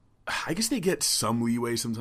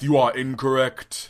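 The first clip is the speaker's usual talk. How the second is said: loud, slow preacher delivery. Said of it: "I was trying to do an M L K impression".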